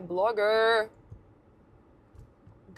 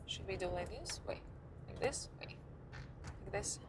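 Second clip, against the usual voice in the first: friend; 2 semitones lower, 15 dB quieter than usual. Retold or imitated. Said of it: "the guy goes".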